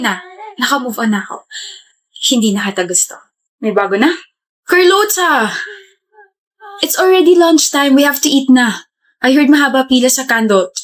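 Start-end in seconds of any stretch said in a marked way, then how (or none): 4.7-8.9 high call of a friend's name. Acted. Friend calling her to lunch, high call-out. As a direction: call "Carlota" out high, falling at the end.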